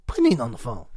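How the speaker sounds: chuckling through the line; laughing as he repeats the joke. Real, not acted. Cohost laughing while repeating the phone call gag.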